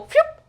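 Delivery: quick high mouth-made swoosh; springing whoop noise. Shown as a demonstration. Sewer showing how the elastic will pull in, quick whoop. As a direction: imitate elastic snapping into place.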